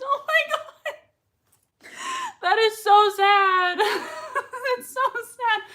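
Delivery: drawn out, slow and near crying; sad. Real, not acted. Host moved by remembering a sad line. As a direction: let the sadness slow every word.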